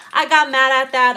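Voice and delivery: a mock angry outburst, voiced lightly. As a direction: blurt it out like you've had enough. Acted quote of someone venting.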